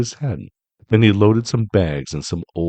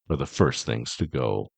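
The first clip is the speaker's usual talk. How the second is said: grinning Grinch; 8 semitones lower, 6 dB quieter than usual. A narrator's reading. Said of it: "he grinned".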